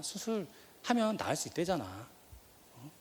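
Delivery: slow, calm imitated mother reassuring her son; calm reassurance. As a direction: slowly soothe him, as if nothing is wrong. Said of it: "아무렇지도 않게 태연하게". (천천히 태연하게 안심시키듯)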